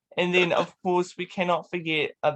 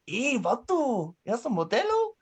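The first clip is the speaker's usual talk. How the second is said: uncle Manny; 6 semitones higher than usual. Acted. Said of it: "long lost, uh, uncle, Manny".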